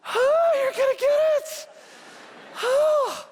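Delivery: soaked and livid, howl the threat; furious mock threat. Soaked pastor shouting threat at fleeing kids, hammed-up rage. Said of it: "And I'm like".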